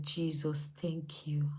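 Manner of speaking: hushed, whispered prayer of thanks. Retold or imitated. Cook thanking God for her own jollof rice, whispered thanks. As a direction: whisper it in grateful relief.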